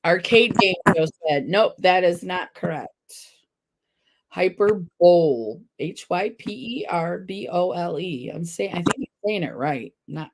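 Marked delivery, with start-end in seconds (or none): 4.3-5.6 slow "hyper-bowl" for Hyperbole; mispronounced HYPERBOLE. Real, not acted. Host rereading the quiz word, Hyperbole as "hyper-bowl". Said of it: "I've been saying it wrong".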